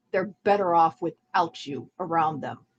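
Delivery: normal talking voice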